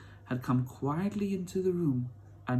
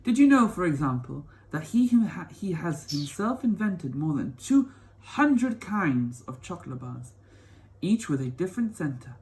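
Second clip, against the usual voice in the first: put-on eager old grandpa; 3 semitones higher than usual. Grandpa Joe eagerly tells Charlie.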